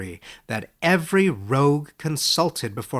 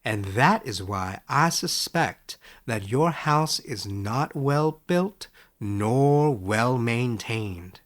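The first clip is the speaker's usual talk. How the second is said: kindly; slower than usual. Acted. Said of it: "Sorrel was kindly".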